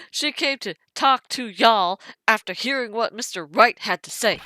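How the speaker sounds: put-on lightly drawn southern US accent. Detective quoting a wild lady, in a southern accent. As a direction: quote her with a hint of southern twang. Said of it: "she has a southern accent".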